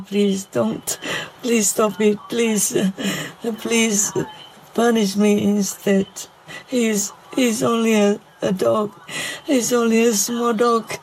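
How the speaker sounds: real choked-up plea to God; pleading, close to breaking down; tearful pleading. Real, not acted. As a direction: beg through tears, in short broken phrases. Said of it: "I can't talk about this anymore".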